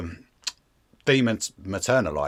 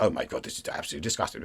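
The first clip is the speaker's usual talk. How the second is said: prim outrage; 5 semitones lower, 8 dB quieter, much faster than usual. Pretend. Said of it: "prim and proper with a stick up your ass".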